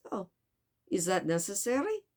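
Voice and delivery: put-on questioning, poor French accent; Passepartout. Servant questions the detective's demand, poor French accent. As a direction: query it in an attempted French accent. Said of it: "tried to do a French accent very poorly".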